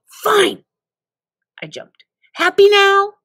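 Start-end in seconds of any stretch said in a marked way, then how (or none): 0.1-0.6 annoyed fine. Acted. Gives up annoyed. 2.3-3.1 high, loud sarcastic jab; loud fed-up sarcasm; sarcastic snap. Acted. Sarcastic after jumping.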